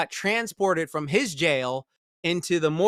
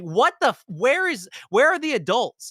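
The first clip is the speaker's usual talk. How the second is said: mock disbelief; 6 semitones higher than usual. Viewer's incredulous reaction quoted.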